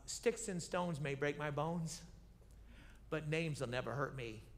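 Goliath's jeer. Retold or imitated. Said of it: "He says this".

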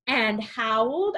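normal talking voice

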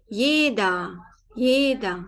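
"Yeda" with long e and final a; German pronunciation demo. Shown as a demonstration. Teacher corrects the ending for learners, "Yeda" ending in a. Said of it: "Şuradaki E'yi A yapalım".

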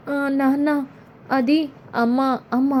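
put-on a child whimpering to her father; crying child. A narrator's reading. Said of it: "ఏడుస్తూ బయటికి వస్తుంది".

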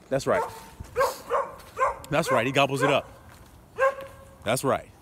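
soft affirmation. Real, not acted. Preacher quietly affirming the gobbling puppy, hushed. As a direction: murmur agreement to yourself.

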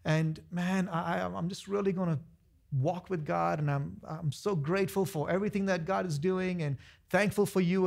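soft, pleading fake humility; mock humble whining. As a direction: imitate a broken, begging churchgoer. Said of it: "they got this humility and they're like".

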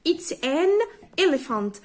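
"it's an elephant" spelled out word by word, very slowly; slow it right down so the kids can follow each word; teacher drilling "it's an elephant" at a crawl; slow careful repeat. Shown as a demonstration. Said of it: "الإكزامبل ده بيقول".

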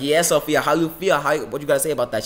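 boastful winner's challenge; retold taunt. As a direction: rub the win in loudly. Retold taunting of beaten rival.

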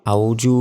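"আউযু" with a plain j sound; "আউযু" without the throat sound or tongue-out dh; common mispronunciation. Retold or imitated. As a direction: show the error, saying "আউযু" as everyday Bengali. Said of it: "এভাবে বললে সম্পূর্ণ এটা ভুল হবে".

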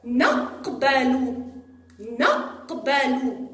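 نقبل slowed, each sound drawn out; slow teaching demo. Shown as a demonstration. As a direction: spell out نقبل slowly for a child. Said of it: "جاء حرف القاف في وسط الكلمة". (نطق بطيء وواضح لكلمة نقبل)

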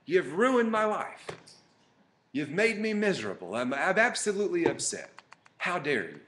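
rising into a loud, high complaint; retold anger at God. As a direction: vent at God as if betrayed, building up. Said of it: "I got mad at God".

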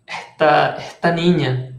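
"esta niña" with the S of "esta" aspirated, like "eta niña"; Caribbean coastal accent. Shown as a demonstration. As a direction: drop the S of "esta" into a breathy h, Costeño style. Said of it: "los costeños dicen esta".

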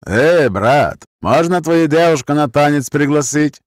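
put-on Gypsy accent, drunk and cheeky. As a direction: lean in with a pushy Gypsy accent. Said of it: "голос с цыганским акцентом".

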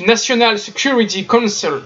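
English accent on the American name; French speaker trying an English accent; attempted English accent. Real, not acted. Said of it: "Magnifique accent anglais, encore une fois".

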